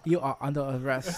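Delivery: mock British accent, playing an official. Shown as a demonstration. Improvising British lines for friends, mock British accent. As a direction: try a stock British accent. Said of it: "It won't be British".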